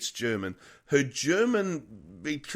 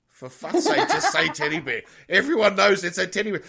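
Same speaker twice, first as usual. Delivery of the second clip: loud, higher, fed up and half laughing; exasperated outburst; 5 semitones higher, 8 dB louder than usual. Retold or imitated. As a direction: blurt it out as an exasperated friend, laughing. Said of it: "They said".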